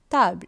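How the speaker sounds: French "table", tah-bluh; French pronunciation. Shown as a demonstration. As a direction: say "table" with an ah vowel. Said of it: "pronunciation வித்தியாசம்".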